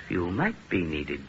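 low, slow, hushed musing; ominous murmur to oneself. Acted. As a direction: drop it down and draw it out. Villain repeats to himself.

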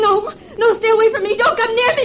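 high, crying in terror; sobbing panic, backing away; terrified. Acted. Threatened at the cliff edge.

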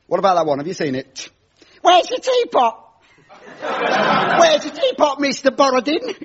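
a lightly voiced cheesy stand-up doing his patter; cheesy comic host. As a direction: play the corny club comedian working the crowd.

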